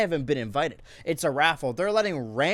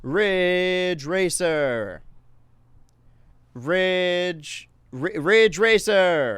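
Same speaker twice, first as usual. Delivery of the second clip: hype shout; 3 semitones higher, 5 dB louder, much slower than usual. Acted. Hyped game name call-out.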